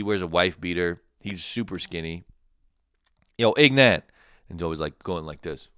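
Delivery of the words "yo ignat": calling out. Pretend. Calling out to Ignat.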